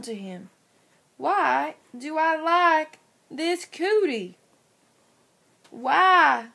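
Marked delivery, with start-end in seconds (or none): 5.7-6.5 loud cry. Acted. Smitten boys fight over cootie.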